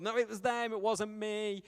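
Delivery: a hammed-up kid crying injustice; mock outraged child. Sibling protesting to parents about unfair punishment, hammed-up loud wail.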